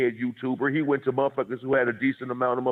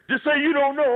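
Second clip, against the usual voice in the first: high, pushy mock plea; pressing him to just say it; frantic pleading dude; 4 dB louder than usual. Retelling the guest pushing him, high frantic plea. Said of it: "got out of his body".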